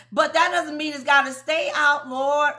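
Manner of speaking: loud rising shout to the Lord; fervent preaching shout. Real, not acted. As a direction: call it out at full voice.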